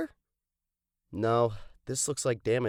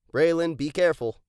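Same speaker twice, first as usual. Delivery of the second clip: warning call; 3 semitones higher, 6 dB louder than usual. Acted. Warns friend near the water.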